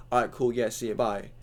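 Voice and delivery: flat, uninterested goodbye; dismissive brush-off. Retold or imitated. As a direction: brush them off without caring. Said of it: "instead of going".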